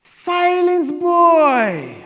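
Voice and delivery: loud, high, stern father's order; commanding dad. Retold or imitated. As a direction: cut him off like a stern father. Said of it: "like, I got his voice down".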